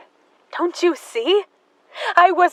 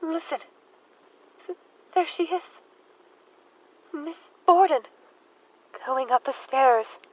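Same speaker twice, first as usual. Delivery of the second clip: hushed; 7 dB quieter than usual. Acted. Hears imagined stepmother, hushed.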